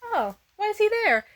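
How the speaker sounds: high, worried voice; high alarmed. Retold or imitated. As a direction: sound shocked and confused. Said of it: "I'm like".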